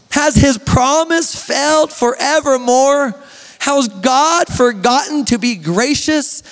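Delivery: slow, weighty reading of the psalm; slow scripture reading. Acted. Pastor reading the psalm to the men, slow and weighty. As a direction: let each question hang.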